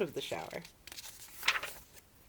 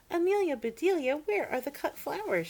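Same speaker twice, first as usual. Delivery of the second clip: calling out; 11 semitones higher, 6 dB louder than usual. A narrator's reading. Mistress calling for the flowers.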